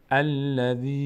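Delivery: الذی with a long, level final i; lengthened ya. Shown as a demonstration. Teacher demonstrates the madd, lengthened ya. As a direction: stretch the ی of الذی steadily. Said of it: "باید بکشیم یا رو".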